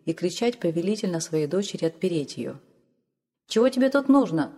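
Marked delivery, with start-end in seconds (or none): 3.5-4.5 gruff, raised challenge at the door; stern shout. A narrator's reading. Smith demands who's knocking, sternly loud. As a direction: blacksmith barks at the stranger. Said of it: "сурово закричал вышедший кузнец".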